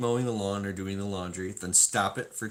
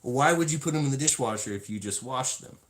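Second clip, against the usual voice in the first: exasperated question; 6 semitones higher, 4 dB louder than usual. Retold or imitated. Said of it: "I said".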